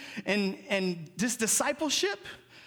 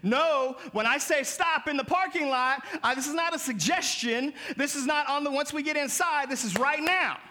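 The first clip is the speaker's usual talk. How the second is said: stern parent; 6 semitones higher than usual. Retold or imitated. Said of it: "like the parent who spanks their kid".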